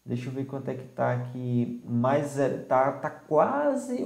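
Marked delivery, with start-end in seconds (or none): 2.6-4.0 high, slow words through a yawn. Real, not acted. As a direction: let a yawn stretch the words. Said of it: "Desculpa aí os bocejos". (falando bocejando)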